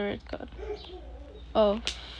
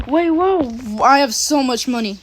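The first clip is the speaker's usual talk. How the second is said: surprised gasp; 2 semitones higher, 6 dB louder than usual. Real, not acted. Finding lots of money.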